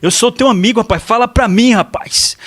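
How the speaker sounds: high, pushier buddy plea; buddy-style father. Retold or imitated. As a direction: call him mano like a pal, urging. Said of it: "Então, "Mano, é o seguinte". (pai de um jeito de mano, mais agudo e forte)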